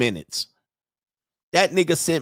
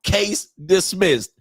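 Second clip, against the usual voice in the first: very slow, higher mock pronouncement; judge's ruling; 6 semitones higher, much slower than usual. Judge throwing his case out, emphatic. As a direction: imitate a judge, each word drawn out.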